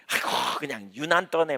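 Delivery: whispered mock disdain, a touch of contempt; scornful sigh. Preacher voicing a formal believer scoffing at praise, whispered scorn. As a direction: sneer it under your breath like a bored scoffer. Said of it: "막 이런".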